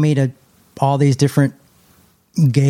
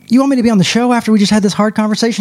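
incredulous retort; 8 semitones higher, 3 dB louder, faster than usual. Retold or imitated.

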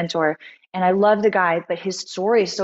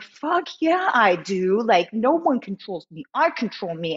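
mock pumped-up yell; 2 semitones higher than usual. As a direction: hype yourself up after a pep talk. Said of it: "And I was like".

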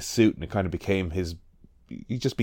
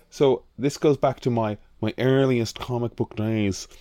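put-on posh accent; 2 semitones higher than usual. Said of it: "try to do a posh accent".

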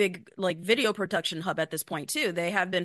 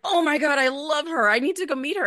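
high and louder, gushing over a star; starstruck gush; 8 semitones higher, 6 dB louder than usual. Retold or imitated. Fan spotting an actress in the studio hallway, gushing. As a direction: squeal like a fan who just spotted her idol. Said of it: "I'm like".

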